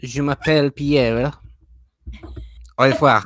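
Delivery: stilted English-accented French, word by word; showing off the little French he remembers, English-accented; clumsy schoolboy French. Shown as a demonstration. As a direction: recite your only French phrases like a shy pupil. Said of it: "I'm pretty useless at, at French".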